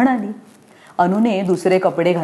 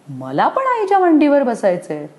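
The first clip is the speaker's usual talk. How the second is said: put-on higher, pleading little girl; jealous child; 8 semitones higher than usual. Anu wishes for her mother's lap, higher plea.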